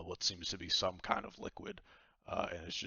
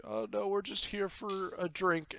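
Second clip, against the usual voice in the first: higher woman's voice, light; Vaku declining; 12 semitones higher, 4 dB louder than usual. Acted. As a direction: brush off the offer politely. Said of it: "Vaku's like".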